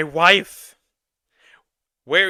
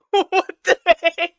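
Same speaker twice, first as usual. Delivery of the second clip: higher, slow, through laughter; can't believe what you just read; laughing disbelief; 11 semitones higher, 4 dB louder than usual. Real, not acted.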